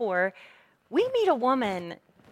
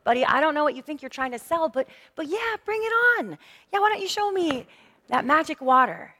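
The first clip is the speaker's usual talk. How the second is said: mock-eager, rising to a higher bring it on; lightly hammed-up teasing woman; 4 semitones higher than usual. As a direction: egg him on with playful disbelief. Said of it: "this teasing tone in her voice".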